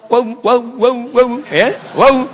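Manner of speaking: loud, high "waw" with rounded lips; "waw" repeated loudly as a teaching demo; emphatic waw drill. Shown as a demonstration. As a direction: belt "waw" out to the class. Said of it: "Bertemu bibir atas dengan bawah".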